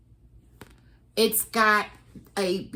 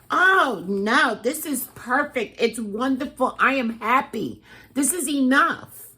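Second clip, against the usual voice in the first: higher-pitched happy insistence; retold gushing reassurance, pitched up; delighted protest; 4 semitones higher than usual. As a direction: insist brightly that you need nothing more.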